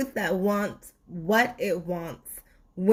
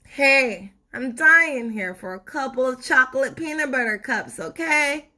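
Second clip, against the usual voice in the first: higher, louder, pleading complaint; exasperated sweet tooth; 5 semitones higher, 4 dB louder than usual. Acted. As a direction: beg the teacher for chocolate.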